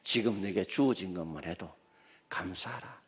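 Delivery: quiet, whispered ending; a soft whispered charge to be thankful; soft rebuke. Acted. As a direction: hush it down to a gentle command. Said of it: "하나님이 책망하시면서".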